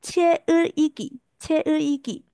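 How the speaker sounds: 切으一击 with an inserted 으 vowel instead of a g sound; wrong linking. Shown as a demonstration. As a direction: say 切으一击 and break the link with a 으 vowel. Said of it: "这样子会变成".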